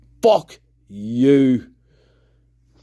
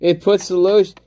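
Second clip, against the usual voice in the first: Buffalo Bill; 6 semitones higher than usual. Acted. Streamer spoofing a lotion ad as the movie killer, strange high accent. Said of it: "the kind of accent that Buffalo Bill has".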